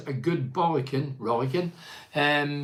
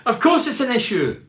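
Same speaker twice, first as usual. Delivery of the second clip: laughing scoff; 8 semitones higher, 5 dB louder than usual. Real, not acted. Laughs at manager's claim.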